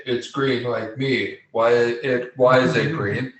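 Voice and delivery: slow, dim-witted orc; lightly voiced dumb orc. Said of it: "doing my best, like, dumb dumb orc voice".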